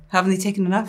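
dry, even-pitched question; deadpan. Retold or imitated. Retelling the comeback to critics of Greek accents, deadpan. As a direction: ask it straight, with no laugh in it.

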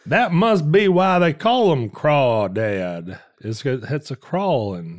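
put-on lightly drawled Raising Arizona hick accent; a hint of the Raising Arizona hick voice. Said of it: "you're doing the Raising Arizona voice".

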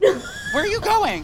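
slurred, laughing shout; drunk laughing. Retold or imitated. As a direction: laugh through it, half shouting.

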